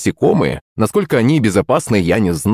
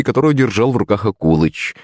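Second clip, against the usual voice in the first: ordinary delivery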